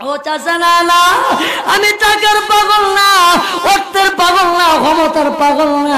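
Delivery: melodic sermon chant swelling into high cries; impassioned waz preaching. Acted. Nephew refusing his uncle's offers, in impassioned preaching chant. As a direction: preach it as a pleading chant with stretched endings.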